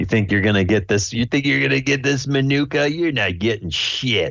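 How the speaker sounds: high, mocking, sneering, jeering taunt. Voicing a rival bear who sneers at a player: sneering taunt as Lotso. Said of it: "kinda sneers".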